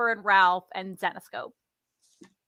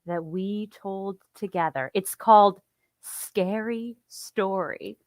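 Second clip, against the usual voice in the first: spooky storyteller voice; 2 semitones lower than usual. Pretend. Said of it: "in my spooky voice".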